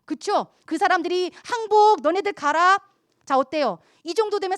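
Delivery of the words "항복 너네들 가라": loud, higher call of a beaten foe; mock Egyptian surrender. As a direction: announce the surrender loudly. Defeated Egyptians voiced. (항복하는 애굽 사람 흉내)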